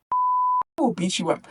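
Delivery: very high, slow, put-on squeaky threat; mock queen threat. Queen threatening poor man.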